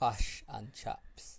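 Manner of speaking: slow copy of Kiwi 'Fush and chops'; New Zealand accent. Retold or imitated. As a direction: imitate New Zealand uh vowels carefully. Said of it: "it becomes fush and chops".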